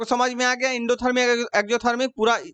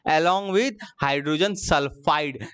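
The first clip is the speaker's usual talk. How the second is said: slow dictation; 4 semitones lower, much slower than usual. Shown as a demonstration. Teacher reads the product aloud.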